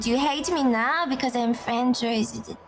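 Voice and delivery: a put-on French accent for chat. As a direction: play it French, teasing the friend. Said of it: "I have to do the French accent".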